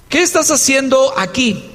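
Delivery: mildly reproachful demand. Acted. Older brother confronts David at the battlefield, mildly reproachful. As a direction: put a touch of reproach into it. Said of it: "Se lo está diciendo con reclamo".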